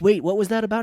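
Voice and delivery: hammed-up confused viewer; mock baffled viewer. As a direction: demand an explanation in disbelief.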